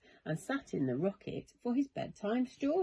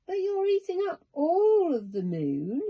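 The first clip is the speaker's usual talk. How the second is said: put-on high, louder worried boy; blurted out; 10 semitones higher, 5 dB louder than usual. A narrator's reading. Charlie alarmed at the creature eating the moon, high worried blurt. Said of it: "Charlie blurted out".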